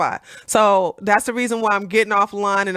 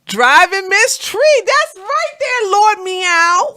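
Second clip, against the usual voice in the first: sing-song name reading; 10 semitones higher, 6 dB louder, slower than usual. Acted.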